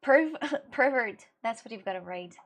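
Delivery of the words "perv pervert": laughing tease. Real, not acted. Teasing chat about unwashed hands.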